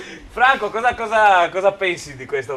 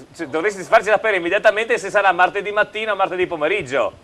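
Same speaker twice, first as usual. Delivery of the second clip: half-joking shout; 3 semitones higher than usual. Real, not acted. Urgent demand about Tuesday.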